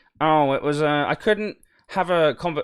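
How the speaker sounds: slow, put-on miserable grumbling, mocking tone. Imitating people who complained about the event: mocking imitation of complaining attendees. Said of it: "I'm making a voice because I'm a little bit".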